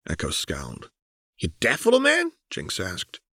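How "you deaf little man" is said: mocking high squeak of a taunt. Jinx taunting Echo, high mocking voice. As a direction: needle him like a brat.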